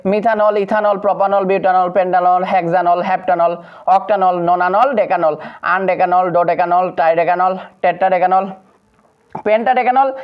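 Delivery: "মিথানল" ending in a clear -nol; even drill from "মিথানল" to "আইকোসেনল"; ending pronounced NOL. Shown as a demonstration. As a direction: recite each name closing on -nol, as in "ডেকানল". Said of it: "তখন আমাদের উচ্চারণ হবে নল".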